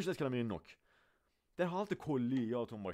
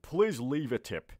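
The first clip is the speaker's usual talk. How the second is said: very slow, spelled-out please leave a tip; drawn-out teacher demo; teacher demo for students, slowed right down; slow model phrase; 3 semitones higher, much slower than usual. Shown as a demonstration.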